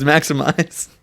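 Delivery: drawn-out, high, loud rallying call; mock-epic command to transform; heroic battle cry. Quoting the film's battle cry.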